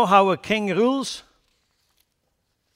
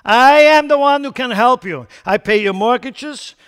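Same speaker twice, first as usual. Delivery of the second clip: higher, louder crowd-pleasing pitch; smooth promising politician; 6 semitones higher, 10 dB louder than usual. Retold or imitated. Politician promising jobless voters everything, loud and eager. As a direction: sell easy promises to the crowd. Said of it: "somebody comes to the scene and says".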